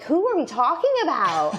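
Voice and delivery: high, laughing puzzled question; laughing confusion. Retold or imitated. Retelling the Swift comments, she laughs confused. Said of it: "and I'm like".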